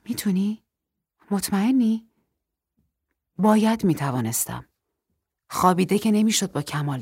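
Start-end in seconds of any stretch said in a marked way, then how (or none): 0.0-2.1 doubtful, whispered first then rising; worried wife questioning his strength; hesitant. Acted. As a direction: ask unsure whether he can stand. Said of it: "با تردید پرسید".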